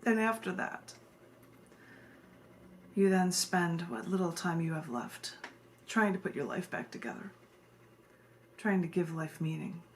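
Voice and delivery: measured, solemn poetry recital with long pauses; poem reading. Acted. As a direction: read it like a spoken-word piece, slowing on key words. Reads her poem aloud.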